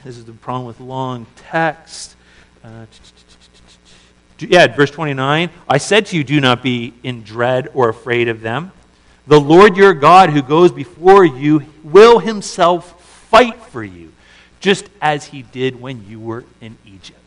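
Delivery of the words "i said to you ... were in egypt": bold exhortation. Retold or imitated. Moses urging the people not to fear, loud and bold. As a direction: declare it with conviction.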